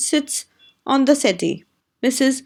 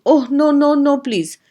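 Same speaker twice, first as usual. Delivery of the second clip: higher, pleading moan; 4 semitones higher, 3 dB louder than usual. A narrator's reading. Mrs Fitzgerald begging them to stop, moaning high. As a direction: moan it out, pitched up.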